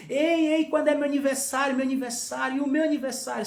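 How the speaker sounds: imitated child repeatedly demanding notice; pestering little brother. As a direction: mimic a little brother nagging for attention. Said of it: "ele ficava falando assim".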